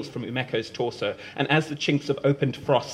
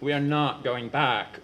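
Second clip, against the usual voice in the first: moaning; slower than usual. Acted. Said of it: "Umeko moans".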